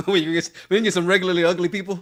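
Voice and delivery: fast, loud incredulous question through laughter; can't believe what she just heard; giggling outrage; laughing disbelief. Real, not acted. Incredulous laughing repeat of claim.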